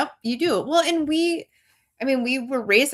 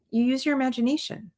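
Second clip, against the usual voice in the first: softer, quick retold teacher nudge; understated, brisk teacherly prompt; patient instruction; 3 semitones higher, 4 dB quieter, faster than usual. Teacher answering stuck second graders, mild patient instruction.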